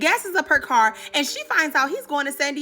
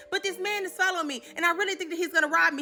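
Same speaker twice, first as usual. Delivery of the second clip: higher, softer, quick pleading; soft mock panic; 4 semitones higher, 4 dB quieter, faster than usual. Woman begging the owner for help, higher and softer. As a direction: plead in a hushed, nervous rush.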